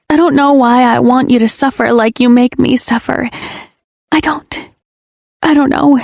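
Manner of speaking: high, pleading confession; tearful apology. Acted. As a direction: beg forgiveness. Confessing jealousy games.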